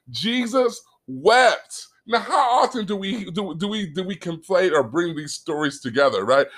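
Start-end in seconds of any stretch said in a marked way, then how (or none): 0.1-1.9 "Jesus wept" said very slowly, "wept" falling; slow, weighty reading. Shown as a demonstration. Preacher reading the shortest verse to his listeners, slowly. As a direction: let each word sink in. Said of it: "verse thirty-five says".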